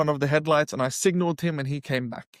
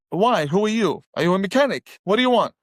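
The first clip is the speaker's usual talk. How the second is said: sharp, defensive questions, a bit louder; 4 semitones higher, 4 dB louder, faster than usual. Retold or imitated. Speaker retells snapping at the helpful stranger, defensive. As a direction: fend off the stranger suspiciously. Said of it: "Just very defensive".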